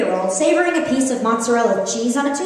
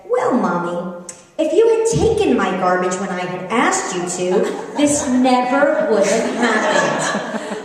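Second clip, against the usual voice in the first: daughter's retort. Retold or imitated. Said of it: "she looked at me squarely in the eye and said".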